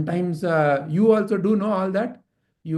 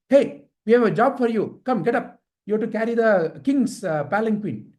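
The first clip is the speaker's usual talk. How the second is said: lightly voiced brisk order, a bit higher; soldiers' order; 3 semitones higher than usual. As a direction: summon him to a job. Soldiers order a man in story.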